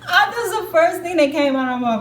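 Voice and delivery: loud, high, laughing aside. Real, not acted. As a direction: laugh through the line. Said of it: "laugh heard".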